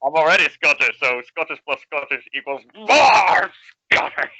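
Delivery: loud, laughing protest. Real, not acted. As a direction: yell it in mock outrage. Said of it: "when you do a Scottish accent".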